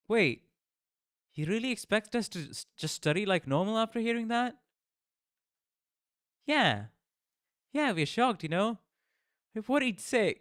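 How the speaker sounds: high, loud disbelief; shocked outrage. Real, not acted. Player shocked at the teacher.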